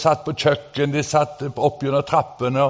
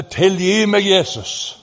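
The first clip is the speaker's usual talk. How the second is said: crying out; 6 semitones higher, slower than usual. Retold or imitated. Preacher retelling the repentant crowd's cry, mock plea. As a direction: call out as if begging Jesus.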